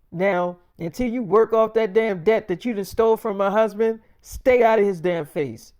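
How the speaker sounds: retelling a wife's heated lecture to her mother; angry scolding. Retold or imitated. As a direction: lay into her mother, voice up and hard.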